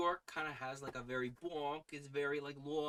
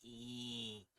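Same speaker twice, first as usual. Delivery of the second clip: nasal Midwestern; 2 semitones lower, 4 dB quieter than usual. Shown as a demonstration. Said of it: "pitch my normal speaking voice into my nose".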